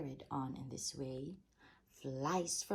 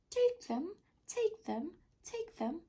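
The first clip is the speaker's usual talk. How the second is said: cave echo; 14 semitones higher than usual. A narrator's reading. Cave echo luring the rat inside, fading. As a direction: echo it away into the dark.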